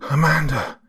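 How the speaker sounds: husband yelling for his wife. Acted. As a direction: shout toward the scream. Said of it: "I yelled".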